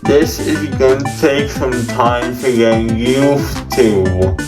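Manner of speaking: numb mouth, gauze inside; muffled. Real, not acted. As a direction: speak around cotton in mouth. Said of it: "talking extremely muffled in those clips".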